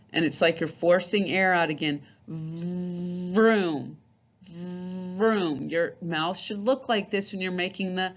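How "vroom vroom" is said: buzzy vroom like a race car. Shown as a demonstration. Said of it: "kinda like vroom when a car's going".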